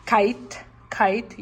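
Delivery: "Kite" said as one beat; one mouth opening on "Kite"; syllable demo. Shown as a demonstration. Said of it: "you have two vowels".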